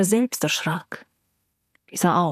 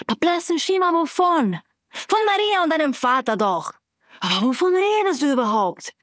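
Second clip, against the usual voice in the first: much higher, incredulous outburst; exasperated; 8 semitones higher than usual. A narrator's reading. Iva demands what Slava means, higher exasperated. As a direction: demand answers in disbelief.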